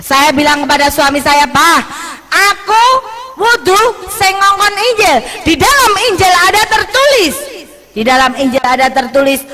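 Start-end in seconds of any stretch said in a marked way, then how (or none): 1.5-7.3 raised retort. Retold or imitated. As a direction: throw the scripture back at him. Retelling her retort to husband.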